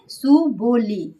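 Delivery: slow सुबोली, syllable by syllable; drawn-out mnemonic. Shown as a demonstration. Teacher repeating the trick for students, drawn-out syllables. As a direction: spell out su, bo, li as beats.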